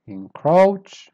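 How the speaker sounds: "Encroach" with high, loud "croach"; weak then up. Shown as a demonstration. Teacher repeating for learners, "Encroach" strongly stressed on the end. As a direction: push hard on the end of "Encroach". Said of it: "Start weak and then you go up".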